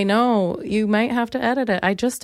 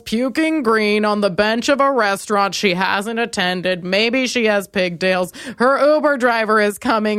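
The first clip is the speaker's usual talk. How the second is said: laughing, pitched-up crowd-control voice; hammed-up police voice narrating herself; mock announcer; slower than usual. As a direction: narrate yourself like a cop clearing a scene.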